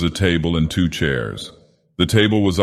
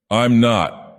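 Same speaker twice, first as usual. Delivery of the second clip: whining; 5 semitones higher than usual. Acted. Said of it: "whined the man".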